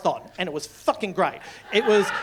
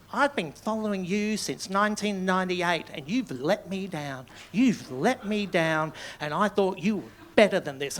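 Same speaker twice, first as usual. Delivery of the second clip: imitating angry email; 3 dB quieter than usual. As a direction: spell out the disappointment word by word. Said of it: "a really angry email".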